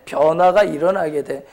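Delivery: normal talking voice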